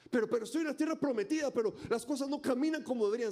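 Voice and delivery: mock frustrated believer.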